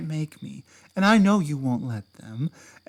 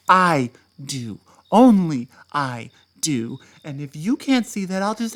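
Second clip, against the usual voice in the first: insistent, louder claim of sole devotion; heated; 6 dB louder than usual. Acted. Ex insisting to partner that only he cares, heated. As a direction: lean hard on "I do". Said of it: "I get very heated".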